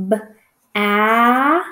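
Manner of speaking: short "b", a pause, then a long held "a" as in apple; sounded-out word. Shown as a demonstration. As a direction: isolate "b" from a stretched "a". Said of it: "I hear a".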